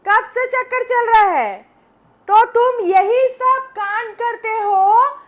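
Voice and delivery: slow, accusing demand; angry interrogation. Acted. Wife confronting husband over an affair, angry interrogation. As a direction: drag out each accusation.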